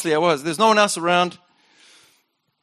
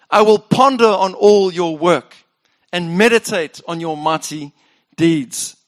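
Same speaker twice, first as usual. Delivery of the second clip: louder, solemn scripture reading; psalm reading; 3 dB louder than usual. Acted. Pastor reading Asaph's lament, solemn. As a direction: read the lament with weight.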